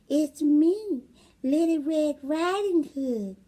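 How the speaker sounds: put-on wolf putting on a sweet girl voice; little girl voice. Wolf fakes the girl's voice at grandma's door, high. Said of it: "in his best little girl voice".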